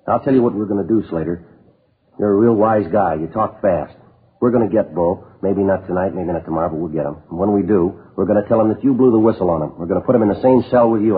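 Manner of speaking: forceful, building warning; threatening. Acted. Detective warns a lying suspect about his cellmate, threatening. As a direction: lay out the threat, pressing harder as it goes.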